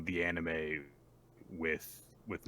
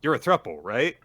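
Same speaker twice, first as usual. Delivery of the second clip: high, loud, fast and shocked; 9 semitones higher, 10 dB louder than usual. Pretend. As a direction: squeak out the confusion. Mock confusion in a roleplay.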